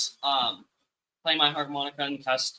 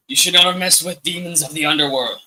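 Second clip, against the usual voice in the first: demonic voice; 3 dB louder than usual. Pretend. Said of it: "the best, like, demonic voice I can".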